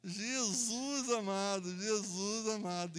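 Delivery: slow, stretched-out cry to Jesus; boy in the current calling on Jesus; frightened plea. Retold or imitated. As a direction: plead it slowly in fear.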